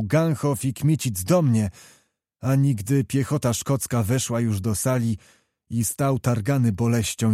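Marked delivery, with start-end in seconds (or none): 0.0-1.7 a prince calling his men; shouted order. Acted. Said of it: "gdy książę zakrzyknął".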